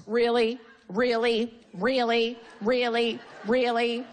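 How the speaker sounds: the same incredulous question drilled repeatedly; relentless needling. Retold or imitated. Comic retelling her badgering of an unlaughing man, relentless. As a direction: keep needling with identical, evenly spaced jabs. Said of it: "like a dog with a bone".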